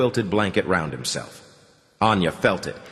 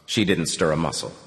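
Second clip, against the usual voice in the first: plain reading voice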